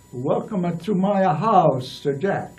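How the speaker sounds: put-on slow, lightly Italian-accented welcome; a hint of an Italian accent, unhurried. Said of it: "an Italian accent".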